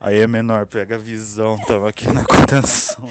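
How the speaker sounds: loud Carioca funk-style slang; hammed-up Rio street accent. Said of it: "sotaque de carioca".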